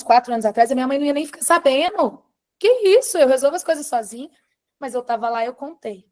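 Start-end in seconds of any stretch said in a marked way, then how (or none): 2.6-4.3 high, loud opening of indignant refusal; imitated former self. Woman voicing her past independent self to mother, indignant. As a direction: brush off help, mock-indignant. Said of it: "se fosse a Gisele de cinco anos".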